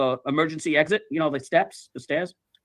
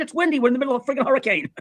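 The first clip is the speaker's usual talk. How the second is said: high, quickening acted retort; retold exasperation, pitched up; exasperated retort; 5 semitones higher, faster than usual. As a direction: argue back as if it's obvious. Acted quarrel during hurricane.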